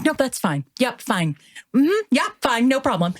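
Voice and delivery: imitating mom's passive-aggressive fine. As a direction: insist it's fine when it isn't. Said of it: "my mom's a bit passive aggressive".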